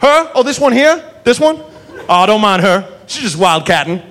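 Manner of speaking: folksy no-big-deal cop; lightly voiced relaxed southern cop. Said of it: "And he goes".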